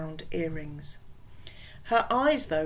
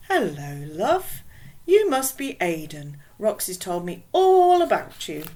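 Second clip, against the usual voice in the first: put-on louder West Indian accent, friendly; 8 dB louder than usual. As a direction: West Indian mum greeting a visitor. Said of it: "in a strong West Indian accent".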